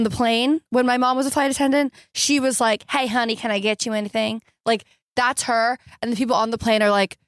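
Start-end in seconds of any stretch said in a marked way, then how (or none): 2.9-4.4 put-on Southern accent. Imitating flight attendant mom offering passengers things, Southern accent. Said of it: "she doesn't have a Southern accent".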